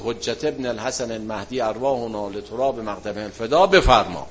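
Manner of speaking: measured, devout prayer voice; closing prayer. Acted. Teacher leading the class in closing prayer, devout.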